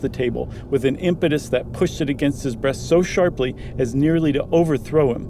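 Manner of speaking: measured, even storytelling voice reading a Halloween tale; story narration. Acted. Reading a spooky story aloud to a co-host, steady narration. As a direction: draw the listener into the dark cabin, line by line.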